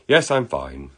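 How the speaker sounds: brisk put-on British reply; terrible British accent. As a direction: answer as an amateur-accented Englishman. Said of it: "I do a terrible British accent".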